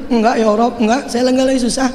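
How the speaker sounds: strained crying prayer; crying plea. Acted. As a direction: beg through tears that all is fine. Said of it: "Sambil nangis tuh dia".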